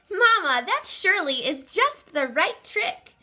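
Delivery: eager bear cub. Acted. Barnaby telling Mama his idea, high and eager. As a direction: pitch up and rush with glee.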